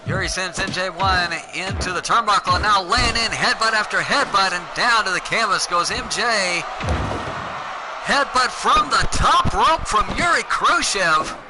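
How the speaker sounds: lively ringside play-by-play; wrestling commentator. Acted. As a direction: call the match like a wrestling announcer.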